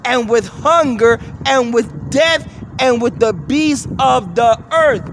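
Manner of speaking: slow, emphatic Bible reading; scripture reading. Acted. Preacher reading a verse to listeners, emphatic scripture reading. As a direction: read the verse out with weight, loudly.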